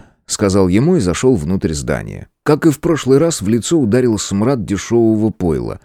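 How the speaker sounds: ordinary delivery, nothing marked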